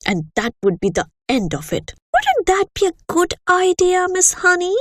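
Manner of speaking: a bullying headmistress holding forth with disgust; lightly voiced harsh headmistress; the Trunchbull. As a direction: sneer at the children like a tyrant. Headmistress speaking to class.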